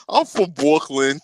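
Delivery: put-on slow, light Brooklyn accent; a hint of Brooklyn accent; mock Brooklyn accent. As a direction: tease the Brooklyn vowels. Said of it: "I don't say it like that".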